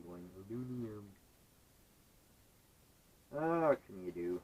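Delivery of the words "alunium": lightly mocking "Alunium", middle syllable dropped; teasing mispronunciation. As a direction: tease with a botched "Alunium", a-LOON-ee-um. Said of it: "voice in the back of my head teasing me".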